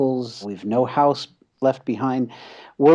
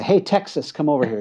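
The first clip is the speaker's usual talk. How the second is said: mock friendly call, higher at the start; retold schoolmates' shout-out, only mildly raised; 3 semitones higher than usual. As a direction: call a pal over, lightly acted. Classmates calling his son over.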